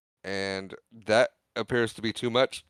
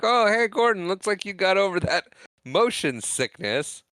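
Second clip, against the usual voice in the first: mock-friendly greeting; 7 semitones higher than usual. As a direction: imitate a chummy "oh, hey" greeting, pitched up. Acted line from the retold film.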